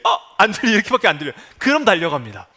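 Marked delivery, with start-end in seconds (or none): 0.0-0.2 silent pained cry. Retold or imitated.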